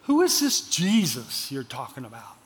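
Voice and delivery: put-on low, soft voice for an old lady's question; a low, puzzled elderly lady; old lady asking. Old lady's question retold in sermon.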